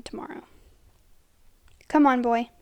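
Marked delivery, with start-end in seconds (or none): 1.9-2.5 words through a held-back yawn; stifled yawn. Acted. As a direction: fight a yawn while speaking. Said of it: "stifling a racking yawn".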